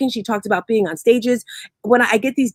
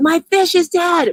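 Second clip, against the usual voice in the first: put-on distraught scream, high, drawn-out, breaking down; 8 semitones higher than usual. Telling about a girl whose fish died, imitating someone screaming. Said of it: "She's screaming".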